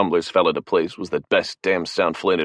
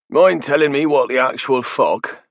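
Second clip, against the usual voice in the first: slow, high and loud, incredulous; exasperated demand; 8 semitones higher, 4 dB louder than usual. Acted. Flynn demanding Mickey explain himself, exasperated. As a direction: drag out the disbelief.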